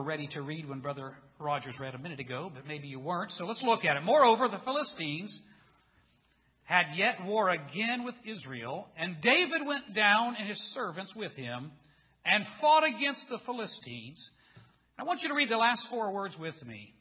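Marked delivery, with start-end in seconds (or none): 4.0-14.3 emphatic, declamatory Bible reading; scripture reading. Acted. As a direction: read the verse out to the congregation. Reads the scripture aloud.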